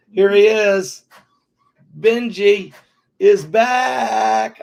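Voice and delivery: bright, high, loud hello to the puppy; high happy welcome for the puppy; excited greeting. Real, not acted. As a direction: greet the dog with delight.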